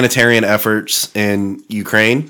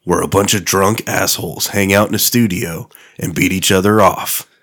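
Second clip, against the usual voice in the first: deep dramatic trailer announcer; booming trailer narration; movie trailer voice; 3 semitones lower than usual. Acted. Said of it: "That's my sick voice".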